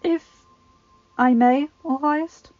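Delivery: oily courtier. Acted. Littlefinger interrupting the king, ingratiating. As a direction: slide in politely.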